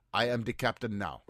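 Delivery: lightly put-on Somali accent; a hint of a Somali accent, movie pirate line. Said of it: "I'll have to practice my, uh, Somali accent".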